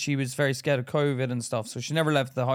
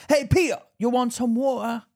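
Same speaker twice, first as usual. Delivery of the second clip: put-on higher Japanese-Cockney accent; 9 semitones higher than usual. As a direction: offer water in a Japanese-tinged Cockney. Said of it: "Cockney but with the Japanese twang".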